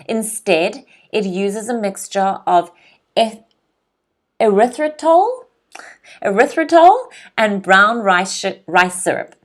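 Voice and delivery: measured teacher's read-aloud; careful model reading, phrase by phrase; article read aloud. Shown as a demonstration. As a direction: read clearly so learners can follow along. Reads article aloud for learners.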